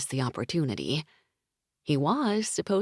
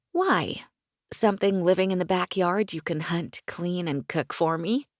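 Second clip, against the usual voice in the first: eye-rolling tease; 3 semitones higher than usual. Acted. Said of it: "with a roll of her eyes".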